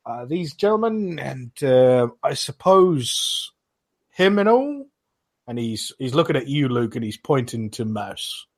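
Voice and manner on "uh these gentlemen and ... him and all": high hesitant guard voice; guard asking. Acted. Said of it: "And he goes".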